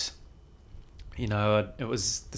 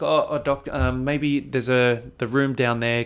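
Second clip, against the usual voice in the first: haltingly redirect the doctor; raised, stumbling, tactful interruption; hesitant interjection; 3 semitones higher, 6 dB louder than usual. Retold or imitated. Nurse nervously interrupts angry standoff.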